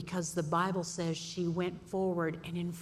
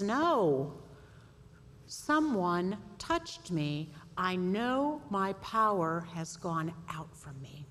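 calm Jesus; slower than usual. Acted. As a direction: settle the hurry with calm. Jesus answers Peter calmly.

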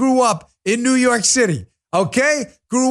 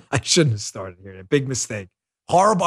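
ordinary talk

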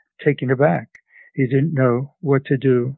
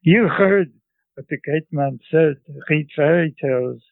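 put-on grandmother laying down the law in a Central European accent; grandmother's Central European accent. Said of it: "That's how she talked".

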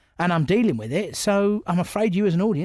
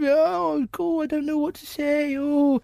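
mock flustered; 9 semitones higher, slower than usual. Comedians falling apart at news.

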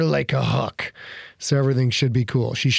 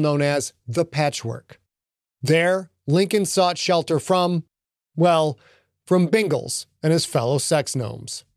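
steady storyteller's read, unhurried; audiobook narration. Acted. Host narrating the episode to listeners, storyteller's read.

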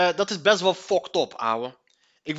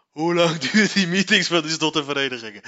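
laughing through the question; lachend; 2 semitones lower than usual. Real, not acted. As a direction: ask it while cracking up. Cracks up at own question. (lachend gevraagd)

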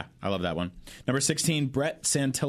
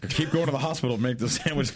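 ordinary delivery

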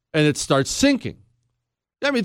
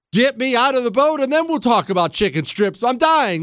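desperate mother yelling; 7 semitones higher than usual. Retold or imitated. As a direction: escalate the plea: "Get me out of the boat" cried out. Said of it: "She's looking at him like".

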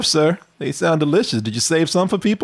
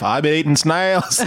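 Crocodile Dundee; 3 semitones lower than usual. Retold or imitated. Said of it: "Crocodile Dundee".

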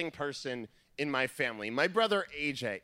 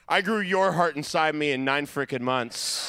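mom's indignant retort; 3 semitones lower, 4 dB louder than usual. Retold or imitated. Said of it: "And she just went".

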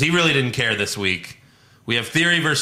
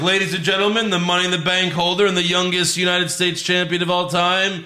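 boxing ring announcer; 5 semitones higher than usual. Retold or imitated. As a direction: introduce him like a ring announcer. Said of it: "the ring announcer is like".

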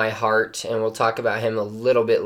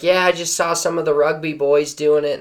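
higher-pitched, badly faked Australian accent; terrible Australian accent; 4 semitones higher than usual. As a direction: imitate an Aussie golfer with a poor accent. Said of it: "This is a terrible Australian accent".

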